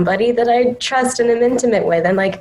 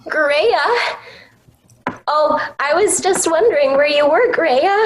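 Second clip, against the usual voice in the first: higher, sweet and lilting; Anne's voice; 8 semitones higher than usual. Pretend.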